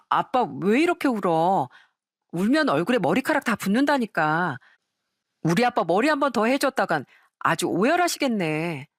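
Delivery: lightly voiced daughter, fondly teasing. Daughter teasing her crying father during the haircut, fond. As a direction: tease him gently while cutting his hair.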